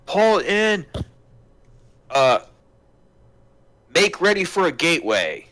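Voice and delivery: high, loud call down the stairs; yelling downstairs. Acted. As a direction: shout an order to Polton below. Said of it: "he yells down to Polton".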